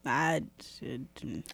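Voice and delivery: very soft, voiceless whisper; hushed admission. Real, not acted. Answering a friend who would have peeked at gifts, whispered. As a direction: whisper it low, almost to yourself. Confessing she never peeked.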